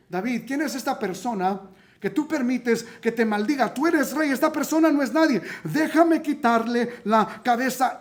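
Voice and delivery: a touch of outraged loyalty; indignant demand. Retold or imitated. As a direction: push the king to strike back. Abisaí urges killing insulter.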